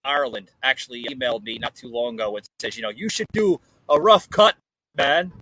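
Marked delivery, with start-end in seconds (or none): 2.9-5.3 put-on a deliberately terrible Irish accent, a bit louder; hammed-up Irish brogue, knowingly awful; bad Irish accent. Quoting an Irish viewer's email in a bad Irish accent. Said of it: "worst impersonation of an Irish accent ever".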